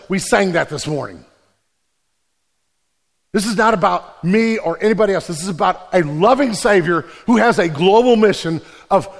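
ordinary talk

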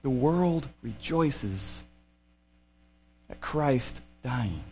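preacher lowering his voice to lament; solemn hush. Acted. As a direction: let it sink, very slow and quiet. Solemn sermon climax.

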